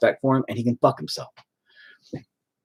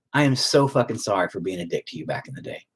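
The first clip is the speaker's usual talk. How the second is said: sincere apology; 6 semitones lower, 5 dB quieter than usual. Retold or imitated. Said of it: "sincerely as fuck I could".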